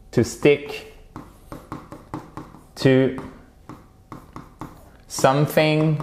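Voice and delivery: very slow, long pauses between words; word-by-word teaching. Shown as a demonstration. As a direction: dictate it to learners one word at a time. Teacher spells out English phrase. (mot à mot, très lentement)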